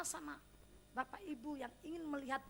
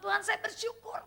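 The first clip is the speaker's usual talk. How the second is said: grateful prayer; 6 semitones higher, 6 dB louder than usual. Retold or imitated. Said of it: "tapi saya bilang".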